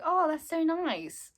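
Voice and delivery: slow, high, gushing imitation; touched reply. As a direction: coo it slowly as a retold thank-you. Retold touched reply to a gift.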